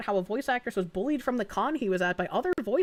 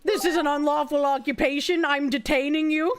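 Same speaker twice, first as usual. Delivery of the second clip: stern cop voice; 4 semitones higher, 3 dB louder than usual. Shown as a demonstration. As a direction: lay down the law deliberately. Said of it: "oh, we're gonna go sovereign citizen".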